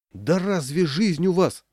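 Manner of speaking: high, loud, slow anguished wail; husband wailing at his wife; wailing cry. A narrator's reading. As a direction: cry out in despair. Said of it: "возопил Непрушин".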